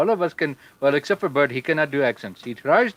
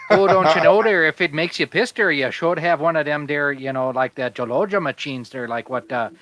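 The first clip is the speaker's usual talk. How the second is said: put-on Irish-ish accent. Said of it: "That sounded like Marty McFly's great-grandfather".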